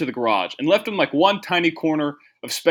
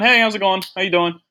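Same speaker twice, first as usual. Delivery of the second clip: friendly greeting; 5 semitones higher than usual. Retold or imitated. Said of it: "put on a smile".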